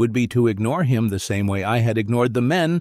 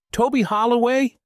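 high, incredulous cry of his name; can't believe who's in the mask; surprised recognition; 13 semitones higher than usual. A narrator's reading. Narrator recognizing the man in the suit, high and incredulous.

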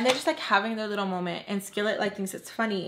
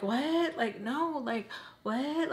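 high-pitched, rising disbelief; mock incredulous denial; 5 semitones higher, 4 dB quieter, much slower than usual. Friend asked if they are hooking up, mock incredulity. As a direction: act baffled by the accusation.

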